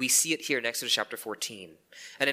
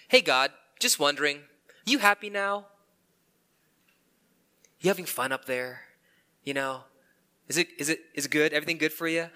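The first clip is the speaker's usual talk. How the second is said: bitter mock-cheerful jab at God; sarcastic. Believer sarcastically asking God if he is happy, bitter. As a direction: tease God with fake concern. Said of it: "Here's a popular one".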